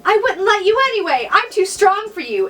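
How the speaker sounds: hammed-up strong heroine. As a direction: stand tall and defy him. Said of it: "Annabelle said in a strong voice".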